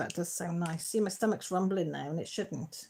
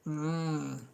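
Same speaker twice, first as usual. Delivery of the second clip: yummy mmm; 4 semitones lower, 4 dB quieter than usual. Real, not acted. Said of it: "That does sound nice in my tummy".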